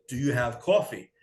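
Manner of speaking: "coffee" with a rounded New York "aw"; New York vowel in "coffee"; New York accent. Retold or imitated. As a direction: ask for "coffee" as a New Yorker, "cawfee". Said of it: "my New York accent".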